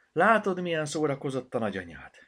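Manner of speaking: high, loud, lightly laughing tone; amused self-mockery. A narrator's reading. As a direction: laugh at your own forgetfulness. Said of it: "nevetett fel". (nevetős, hangos önirónia)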